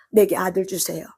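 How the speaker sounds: ordinary talk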